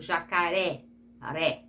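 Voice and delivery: "jacaré" with the final "ré" hit harder, then "ré" alone; stress on the last syllable. Shown as a demonstration. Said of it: "Quando a última sílaba for a mais forte". ("jacaré" com a última sílaba, "ré", mais forte)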